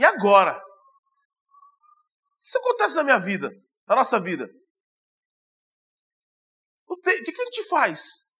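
very high, put-on desperate, tearful crying. Recounting a fellow pastor's reaction to tragic news, retelling desperate crying words. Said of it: "desesperado, chorando, falou assim".

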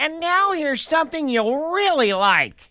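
very high, squeaky squirrel chatter. Acting out a squirrel popping out after the moose is dragged away: put-on squirrel voice. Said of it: "a squirrel pops out and goes".

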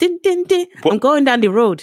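Barbados accent. Often told they seem Barbadian, the speaker tries a put-on Bajan accent. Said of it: "That was my Bajan accent".

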